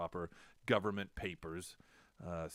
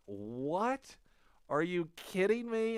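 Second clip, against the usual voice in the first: high, loud cry of disbelief; shocked disbelief; 11 semitones higher, 5 dB louder, much slower than usual. Retold or imitated. Reacting to clerk's news, high loud disbelief. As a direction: squeal it like you can't believe it. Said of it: "I was like".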